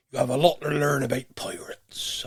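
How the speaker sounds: whispered pirate growl. Shown as a demonstration. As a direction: say it like a pirate, hushed. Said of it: "Or in Pirate".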